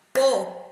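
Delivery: "poeta" split into po, e, ta; loud, detached syllables of "poeta". Shown as a demonstration. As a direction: say "poeta" in three separate beats with pauses. Teacher separates syllables.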